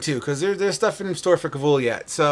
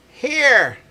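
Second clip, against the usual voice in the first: sudden exclamation; 8 semitones higher, 5 dB louder than usual. Acted. Old man NPC handing over scroll.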